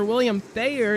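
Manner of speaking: name said through a belch; burping the words. Real, not acted. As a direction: burp out the name. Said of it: "I belched his name".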